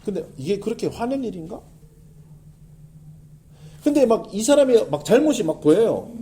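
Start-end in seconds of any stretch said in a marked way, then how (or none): 0.1-1.6 calm self-question. Retold or imitated. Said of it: "내가 막 화가 났어요".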